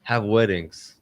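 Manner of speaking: put-on Russian accent. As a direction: deliver the joke in a Russian accent. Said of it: "the random voice".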